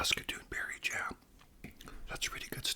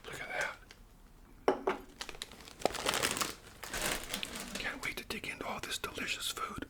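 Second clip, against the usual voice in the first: ASMR whisper; 9 semitones higher than usual. Acted. Host whispering about Canadian food to viewers, ASMR whisper. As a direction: whisper each word like sharing a treat.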